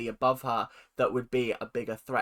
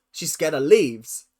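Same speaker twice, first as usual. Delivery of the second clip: incredulous repeat; 8 dB louder than usual. Real, not acted. Mocking disbelief at Cirie's fear.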